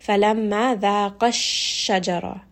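ذَاقَ linked into الشَّجَرَةَ with the final alif lost; words combined. Shown as a demonstration. Teacher showing why the dual is unheard, ذَاقَ الشَّجَرَةَ joined. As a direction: run ذَاقَ straight into the doubled sh of الشَّجَرَةَ. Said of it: "because you are combining them together".

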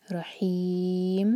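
very slow रहीम, long four-count stop; Quran recitation. Shown as a demonstration. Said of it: "चार हरका खींचेंगे".

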